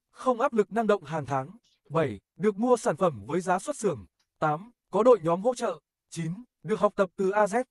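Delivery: ordinary talk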